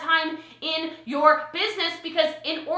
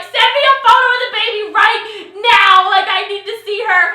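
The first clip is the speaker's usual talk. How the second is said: loud, higher eager plea; eager demand; 5 semitones higher, 10 dB louder than usual. Retold or imitated. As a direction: demand it bursting with excitement. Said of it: "I'm like".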